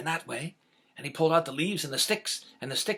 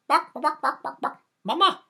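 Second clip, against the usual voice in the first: high, loud chirping chick; a chick yapping for its mama; little chick voice; 14 semitones higher, 7 dB louder than usual. Acted. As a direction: squeak it out like a tiny chick. Baby chick calling to mother.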